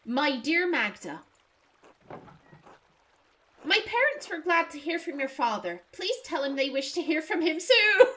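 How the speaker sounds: peasant voice. Acted. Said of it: "I did peasant voice".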